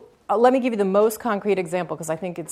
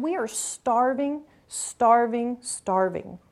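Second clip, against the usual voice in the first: higher, slow, pained repeated plea; desperate plea; 5 semitones higher, much slower than usual. Retold or imitated. Mother in Niger insisting they are starving, slow pleading. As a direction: repeat it like a begging mother, fading.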